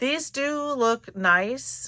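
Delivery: slow and let down, disappointed tone.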